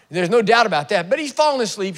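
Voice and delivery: ordinary talk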